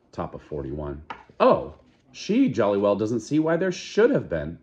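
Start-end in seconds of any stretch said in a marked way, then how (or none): 1.4-4.6 mocking repeat. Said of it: "Fanny repeated, as though to an invisible listener".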